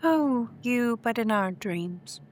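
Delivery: flirty. Acted. Flirting with the handsome face.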